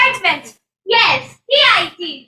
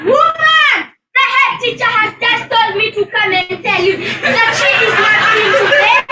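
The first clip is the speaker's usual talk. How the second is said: laughing shout. Acted. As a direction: shout it across the room, laughing. Teacher shouts message at parent.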